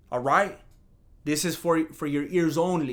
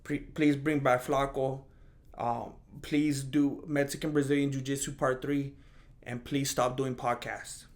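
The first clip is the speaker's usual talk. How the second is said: whiny fan; 3 semitones lower, 5 dB quieter than usual. Retold or imitated. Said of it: "some other people are gonna say".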